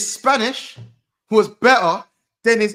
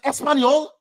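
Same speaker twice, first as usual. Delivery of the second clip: imagined Trent; 7 semitones higher than usual. Retold or imitated. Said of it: "I thought Trent was gonna be like".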